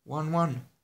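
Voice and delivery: high, loud squeal of a pet name; piercing shriek. A narrator's reading. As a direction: shriek it out across a crowded room. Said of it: "cineva țipa ascuțit".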